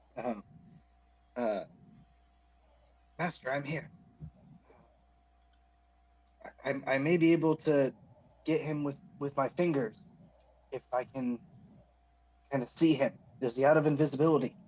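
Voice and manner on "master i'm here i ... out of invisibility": quiet whisper in a character voice. Voicing an invisible character reaching his master unseen: whispering in character. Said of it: "but he's gonna whisper to, to Rage In".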